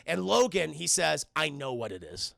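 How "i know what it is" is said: gruff low voice. Retold or imitated. Logan's gruff line voiced.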